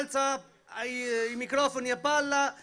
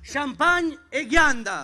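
announcer call; 2 semitones higher, 7 dB louder, much slower than usual. Real, not acted. Announcing the band loudly.

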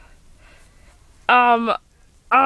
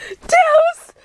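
high, loud shout of his name; outraged shout; 4 dB louder than usual. Acted. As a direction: call him out, outraged. Girlfriend catches boyfriend cheating.

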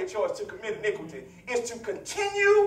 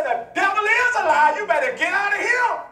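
rebuking shout; 5 semitones higher than usual. Retold or imitated. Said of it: "you say".

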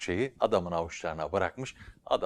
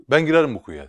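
bold declaration; 5 semitones higher, 12 dB louder, faster than usual. Acted. Man volunteers boldly before crowd.

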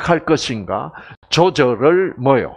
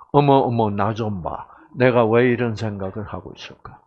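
mock surprise; 5 semitones lower than usual. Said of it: "여자들이 가끔 이런 말을 하잖아요".

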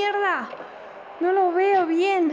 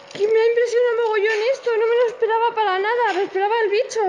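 excited; 3 semitones higher, faster than usual. Real, not acted. Excited after being caught.

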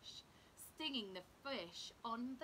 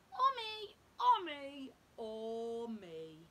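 squeaky creature voices; 10 dB louder, slower than usual. A narrator's reading. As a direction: call out like tiny mean rock-pool critters. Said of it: "other creatures refusing crab".

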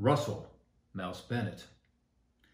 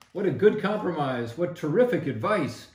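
excited cheering; 4 semitones higher, 5 dB louder than usual. A narrator's reading. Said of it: "they all shouted".

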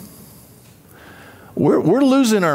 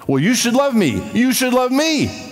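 whiny accuser; 8 semitones higher than usual. Retold or imitated. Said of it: "imitating critics".

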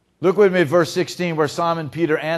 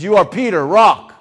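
emphatic naming; 8 dB louder than usual. Acted. Jesus renaming Peter, emphatic.

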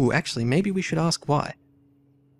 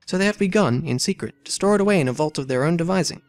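dramatic story reading; 3 semitones higher than usual. A narrator's reading. Player reading game dialogue aloud, lively character reading. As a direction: voice the valet's protest, then the lady's demand. Voicing valet and thief.

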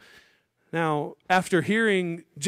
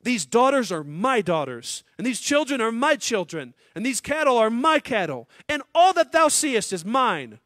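louder, higher, rising scripture reading; fervent scripture reading; 7 semitones higher, 5 dB louder than usual. Acted. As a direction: read out Laban's greedy claim with rising force. Reading Laban's claim from scripture.

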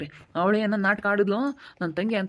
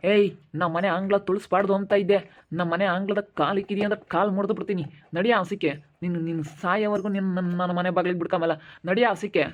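angry. Acted. Father throws daughter out.

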